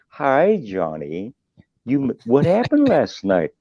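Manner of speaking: mock soft and gentle. Mocking how polite people would call Johnny, slow and soft. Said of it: "They talk soft and gentle".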